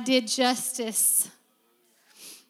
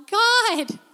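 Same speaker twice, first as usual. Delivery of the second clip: high, loud, emotion-choked "God, I can't give you enough"; breaking with emotion; overwhelmed cry to God; 9 semitones higher, 6 dB louder, slower than usual. Retold or imitated. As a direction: cry out to God, overcome with gratitude. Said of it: "you're like".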